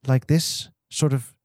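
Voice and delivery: slow, tentative English accent. Shown as a demonstration. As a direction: try out an English accent slowly. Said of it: "like, an English accent?".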